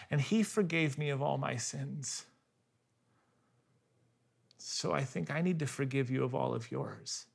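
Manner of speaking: forgive her quietly, from the heart; gentle forgiveness. Retold or imitated. Husband answering his wife's confession, soft and tender.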